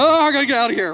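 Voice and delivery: high, loud comic wail; hammed-up frantic escape; mock panic. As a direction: cry it out as if fleeing. Acted pastor panics and flees.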